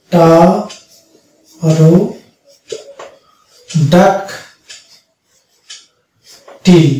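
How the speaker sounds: pterodactyl drawn out very slowly, starting on t; slow model pronunciation. Shown as a demonstration. Teacher models word for students, very slowly stretched. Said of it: "তাহলে উচ্চারণ হয়ে যাবে এটা".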